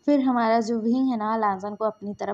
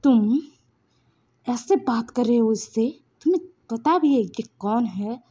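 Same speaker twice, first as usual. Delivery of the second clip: mild, louder indignant challenge; angry confrontation; 4 dB louder than usual. Acted. Wing confronts the man who insulted Lansan, angry. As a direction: push out a threat in rising anger. Angry character threatens attacker.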